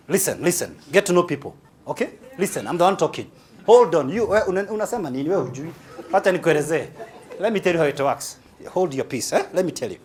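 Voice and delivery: lightly voiced bossy talker cutting people off; a hint of a domineering boss interrupting; domineering choleric. Speaker acting the choleric who silences a listener, mildly bossy. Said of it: "This is how the choleric talks".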